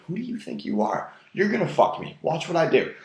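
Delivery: high-pitched mock girl's challenge. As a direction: imitate a daring, taunting girl. Voicing the girl's challenging look.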